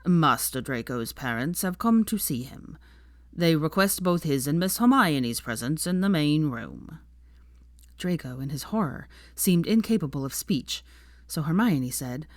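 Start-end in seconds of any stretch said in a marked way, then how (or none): 0.1-7.0 lightly voiced devoted house elf, proud; a hint of an old servant speaking up for his master.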